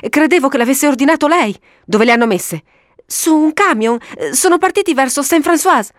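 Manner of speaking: high-pitched, puzzled official; baffled high voice; perplexed clerk. A narrator's reading. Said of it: "disse perplesso".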